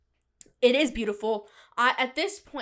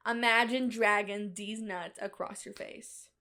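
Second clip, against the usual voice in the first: mock sultry read; 3 semitones lower, 4 dB quieter than usual. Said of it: "how good my acting is".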